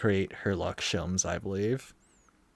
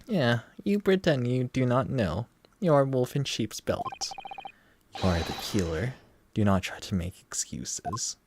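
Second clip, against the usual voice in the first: put-on Russian accent; 3 semitones higher than usual. Player voicing the Russian accuser in a Russian accent. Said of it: "That accent? Eastern European?".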